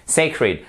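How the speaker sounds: "sacred" dit SEY-kred, accent au début; prononciation juste. Shown as a demonstration. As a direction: appuie sur le SEY de "sacred". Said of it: "Ça, ça marche pas non plus". ("sacred" à l'anglaise, modèle de prof)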